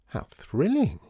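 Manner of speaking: high-pitched, emphatic enthusiasm; thrilled society lady. A narrator's reading. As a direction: gush as a thrilled lady would.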